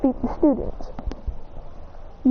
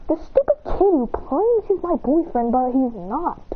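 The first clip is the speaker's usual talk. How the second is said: put-on upset girl voice; 4 semitones higher than usual. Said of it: "She goes".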